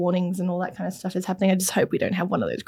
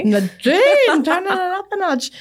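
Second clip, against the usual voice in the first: teasing; 11 semitones higher, slower than usual. Real, not acted. Teasing co-host over game name.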